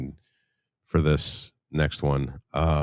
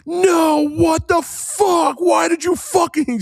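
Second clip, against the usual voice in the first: very high, drawn-out mock scream; top-of-lungs scream; 4 dB louder, much slower than usual. Streamer imitating his buddy screaming in the casino, top-of-lungs scream. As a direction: scream it out at full pitch, imitating his outburst. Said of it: "screaming on the top of his lungs".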